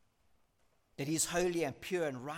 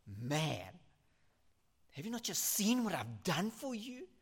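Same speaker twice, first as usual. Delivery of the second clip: rebuking God; 5 semitones higher, 5 dB louder than usual. Acted.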